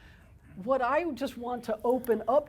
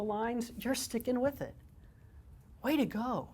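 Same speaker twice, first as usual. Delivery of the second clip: softer, encouraging coach tone; 4 dB quieter than usual. Shown as a demonstration. Therapist demoing encouragement to a working child, soft and warm. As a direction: gently cheer the child on. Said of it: "and I'll just go".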